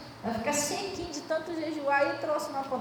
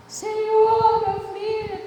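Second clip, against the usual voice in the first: high, loud pleading wail; a father crying out to Jesus for his son, high and loud; 9 semitones higher, 6 dB louder, much slower than usual. Retold or imitated. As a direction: cry out to the Lord, begging. Father begging Jesus in tears.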